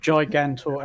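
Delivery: "Gigantor" begun like the word giant; soft G. Shown as a demonstration. Confirming it for friends, "Gigantor" starting like giant. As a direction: say "Gigantor" with a J sound. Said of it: "as in giant".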